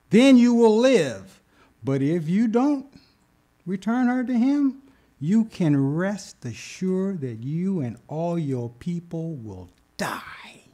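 slow stern warning sinking to a whisper; God's warning fading to whisper. Acted. God warns the king, slow, ending in whisper. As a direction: let the threat fall to a hush.

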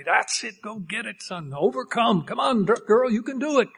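acted coach-like cheering; rousing pep-talk encouragement. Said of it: "He's cheering for us".

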